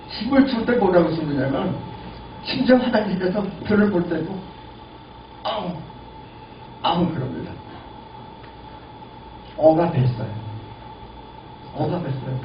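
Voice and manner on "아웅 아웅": imitated straining grunt. Shown as a demonstration. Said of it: "힘주는 소리를 제가 흉내를 잠깐 낼게요".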